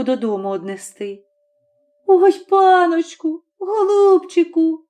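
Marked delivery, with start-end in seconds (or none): 2.1-4.9 high, slow, weeping plea; mother begging the angry master, tearful and slow; tearful pleading. A narrator's reading. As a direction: beg the master through tears. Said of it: "благає його Горпина плачуща".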